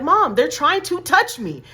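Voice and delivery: high, loud, slow whine to mom; whiny child. Retold or imitated. Little girl complains to her mom about strangers, high and whiny. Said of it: "I, like".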